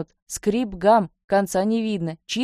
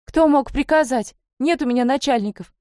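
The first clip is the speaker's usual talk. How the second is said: defiant cry; 7 semitones higher, 3 dB louder than usual. A narrator's reading. Young lady shouting back at the horseman, defiant cry. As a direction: refuse the order in a raised, high voice. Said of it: "Стала и она кричать".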